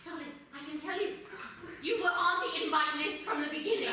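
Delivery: low, theatrical creepy host; creepy librarian. Acted. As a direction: lay it on like a spooky host.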